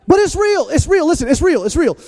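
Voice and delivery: loud, high insistent preaching; real shouted conviction; emphatic preaching. Real, not acted. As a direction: drive it home in urgent repeats. Preacher insists at full force.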